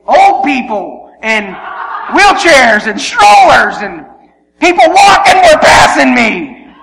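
loud, building exasperated shout; comic indignation. Retold or imitated. Runner overtaken by strollers and walkers, indignant shouting.

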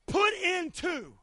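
"Put into" drawn out slow and loud; slow stress. Shown as a demonstration. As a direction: lean hard on "Put into". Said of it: "comes from the Greek word".

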